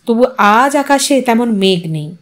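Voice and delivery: plain reading voice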